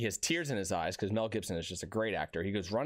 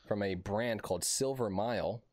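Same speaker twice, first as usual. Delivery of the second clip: mock fancy. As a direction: savor each word like a sommelier. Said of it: "I'm gonna sound real fancy".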